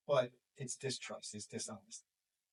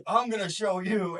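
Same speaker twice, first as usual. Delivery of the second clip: mock teen defiance; 7 semitones higher, 11 dB louder than usual. Son's defiant boast retold.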